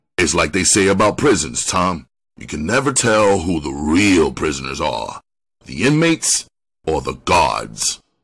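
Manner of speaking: plain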